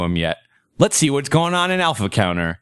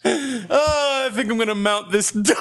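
laughing mock; 9 semitones higher than usual. Mocking Em through laughter.

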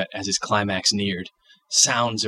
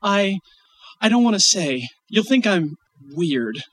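put-on child voice; 9 semitones higher than usual. Child voice, embarrassed.

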